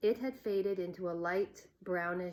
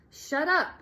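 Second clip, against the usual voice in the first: angry shout; 9 semitones higher, 8 dB louder than usual. A narrator's reading. Boy yells at teasing girl.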